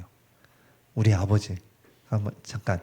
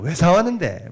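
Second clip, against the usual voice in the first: Gyeongsang dialect; 4 semitones higher than usual. Retold or imitated. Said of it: "경상도 사투리가 나오는 겁니다".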